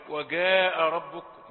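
"جاء" with g as in go for jeem; Egyptian hard g. Shown as a demonstration. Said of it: "نقول له برضو خطأ". (نطق الجيم في "جاء" جيمًا مصرية)

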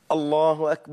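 الله أكبر with a long aa after the ب, "akbaar"; mispronounced takbir. Shown as a demonstration. Teacher mimicking how some people say the takbir, mispronounced. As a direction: drag out the last syllable of أكبر. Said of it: "بعض الناس بقى يروح عاملها إزاي".

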